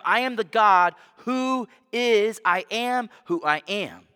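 rising preacher's fervor voicing God's words; majestic proclamation. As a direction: proclaim it as God's grand self-declaration. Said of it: "fantastic and beautiful statement".

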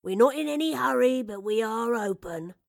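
put-on loud kindly old shopkeeper; kindly reassurance. A narrator's reading. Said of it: "a kindly voice reassured her".

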